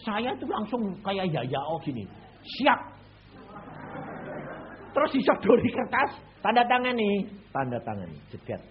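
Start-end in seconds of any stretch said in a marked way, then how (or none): 2.4-7.3 eager. Retold or imitated. Excited retelling.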